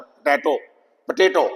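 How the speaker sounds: पोटैटो with a weak "puh" start; schwa first syllable. Shown as a demonstration. Teacher correcting the first vowel, schwa. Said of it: "ये श्वास sound है".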